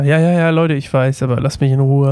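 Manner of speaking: mildly annoyed mock brush-off; dismissive. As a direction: wave them off in a casual retold quote. Voices annoyed Elisa in retelling. (leicht genervt nachgespielt, abwinkend)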